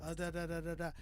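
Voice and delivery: even, droning da-da-da; monotone. Shown as a demonstration. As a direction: mimic talk with no dynamics. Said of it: "he's not just".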